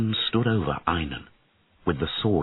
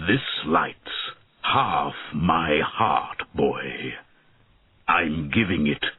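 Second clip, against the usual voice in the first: tender dying dragon; slower than usual. Acted. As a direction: give your last gift with sorrow. Dying dragon gives his heart.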